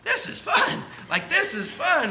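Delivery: put-on a thrilled child, high and bright; imitating kid. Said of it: "all of a sudden they're like".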